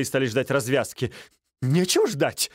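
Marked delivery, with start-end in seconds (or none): 1.6-2.5 higher, hurried and fussy; fussing. A narrator's reading. Стольский fussing to push the duel, raised and agitated. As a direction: bustle and fret at him. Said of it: "суетился Стольский".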